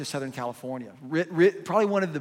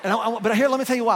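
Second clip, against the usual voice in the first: laughing and loud; 7 semitones higher, 8 dB louder, faster than usual. Real, not acted. Laughing after teasing the crowd.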